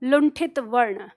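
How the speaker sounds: slow, falling लुंठित वर्ण; stressed term. Shown as a demonstration. Teacher revealing the term लुंठित वर्ण to students. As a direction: land the answer लुंठित वर्ण firmly. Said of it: "नाम क्या दे दिया?".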